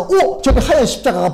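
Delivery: high, sudden "oh!" of discovery; retold burst of surprise; surprised exclamation. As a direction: act out suddenly spotting it. Companion suddenly spots the cross.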